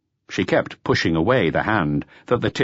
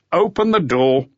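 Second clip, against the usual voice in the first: louder, panting command; sharp order; 9 semitones higher, 4 dB louder than usual. Acted. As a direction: bark the order. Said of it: "ordered the waitress".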